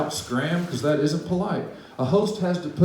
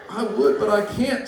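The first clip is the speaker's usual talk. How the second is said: mild mock sob; 8 semitones higher than usual. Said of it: "sobbed poor Thidwick".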